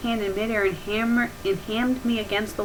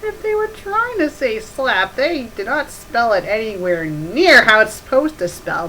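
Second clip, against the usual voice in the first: laughing disbelief; 3 semitones higher, 6 dB louder than usual. Real, not acted. Reader laughing at the misspelled slap, cracking up. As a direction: crack up over the spelling.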